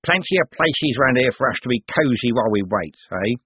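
threatening street thug voice; menacing crook. Acted. Cribbins' voice again.

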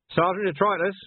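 shouting across a distance; calling out. A narrator's reading. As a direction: call out to him far off.

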